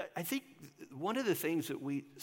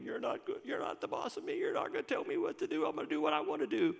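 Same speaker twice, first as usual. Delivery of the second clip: put-on childish tantrum; 2 semitones higher than usual. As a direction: play a stomping child. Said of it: "kind of an infantile, childish thing to say".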